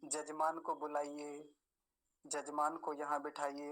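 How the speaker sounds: जजमान with j replacing the first y; priests' mispronunciation. Retold or imitated. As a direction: imitate priests starting जजमान on a j. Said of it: "पंडित जी लोग कुछ और ही नाम".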